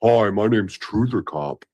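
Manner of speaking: hammed-up bass voice; bassy voice. Shown as a demonstration. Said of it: "Just go".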